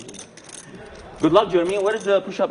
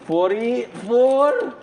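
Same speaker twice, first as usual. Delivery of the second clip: doing push ups; 5 semitones higher, 4 dB louder, slower than usual. Real, not acted. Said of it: "What a beast".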